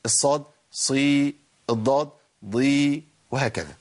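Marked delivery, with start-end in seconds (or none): 0.7-1.4 "صي" held long with emphatic ص; thick, slow "ṣii"; heavy ṣad with kasra. Shown as a demonstration. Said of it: "الأربعة الإطباق أقوى". 2.4-3.0 "ضي" held long with emphatic ض; thick, slow "ḍii"; heavy ḍad with kasra. Shown as a demonstration. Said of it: "الأربعة الإطباق أقوى".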